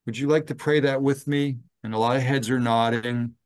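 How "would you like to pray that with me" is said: asking residents, pitch lifted higher; lightly voiced kind invitation to pray; gentle invitation. Chaplain gently asks residents to pray along, lifted voice. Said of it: "I will look at the residents and I will say".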